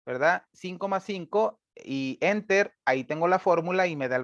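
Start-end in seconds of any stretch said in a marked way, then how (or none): 0.5-2.7 slow dictation. Shown as a demonstration. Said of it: "Es como si pusiera en una celda igual".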